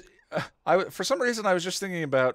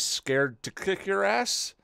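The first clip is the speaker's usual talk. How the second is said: put-on drunk British accent; 6 semitones higher, slower than usual. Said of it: "I couldn't pick the accent".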